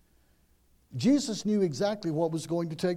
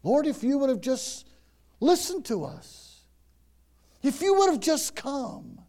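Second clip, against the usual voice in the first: pleading lament; 9 semitones higher, 4 dB louder than usual. Acted. Pleading with Jesus as Martha.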